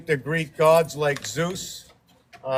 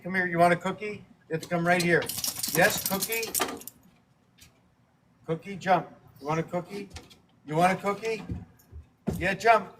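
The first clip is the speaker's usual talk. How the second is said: higher, sing-song pet talk; dog-coaxing voice; 5 semitones higher than usual. Acted. Owner coaxing Ozzy to come for a cookie, higher sing-song pet talk. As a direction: coax the dog like a toddler with a treat.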